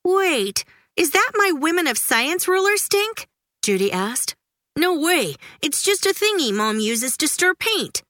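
accuse, then shrug it off; lively sibling squabble; kids bickering. A narrator's reading. Judy and Stink bicker.

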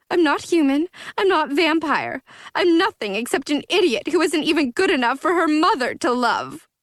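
put-on high, slurring drunk girl wallowing; drunk self-pity. Drunk Aphrodite wallowing to Zoey, high and slurring. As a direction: feel sorry for herself, tipsy and high.

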